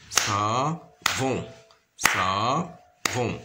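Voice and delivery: "savon" in two drawn-out beats; syllable by syllable. Shown as a demonstration. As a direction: sound out "savon" as sa, pause, von. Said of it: "on a deux syllabes".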